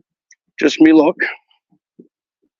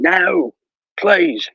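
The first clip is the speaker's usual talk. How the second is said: pitched way up, a hammed-up plea; mock begging; 13 semitones higher, much slower than usual. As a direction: squeak out a fake plea for mercy. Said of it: "begging for your life, saying".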